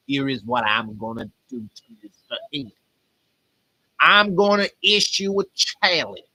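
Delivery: measured preacher with a put-on Texas accent; attempted Texas accent. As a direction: issue a challenge in mock Texan. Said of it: "a Texas accent".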